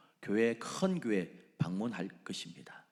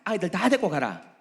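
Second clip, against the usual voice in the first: high, loud, with a laugh; sly laughing offer; 8 semitones higher, 10 dB louder than usual. Acted. Satan offering a deal, laughing. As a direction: laugh while tempting.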